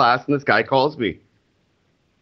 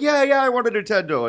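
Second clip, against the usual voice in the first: imitating wife; 10 semitones higher than usual. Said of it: "she's like".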